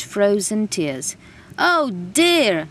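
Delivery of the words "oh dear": shouting. Acted. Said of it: "he shouted".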